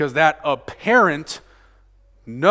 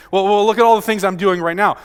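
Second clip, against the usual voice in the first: quick, louder mock protest; defensive self-justifying; 3 semitones higher, 6 dB louder, faster than usual. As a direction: rush it out as a hasty self-defence. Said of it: "start saying".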